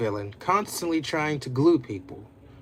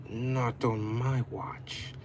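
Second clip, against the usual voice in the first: mild whisper; 3 semitones lower, 6 dB quieter, slower than usual. Acted. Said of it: "and whispered".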